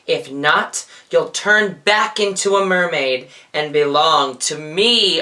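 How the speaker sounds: sea witch. Acted. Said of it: "Ursula cackled".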